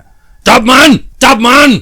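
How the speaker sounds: high, drawn-out angry yell; father shouting for a capture; shouted command. A narrator's reading. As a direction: yell the order to the crowd below. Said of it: "เสียงในหัวร้องตะโกน".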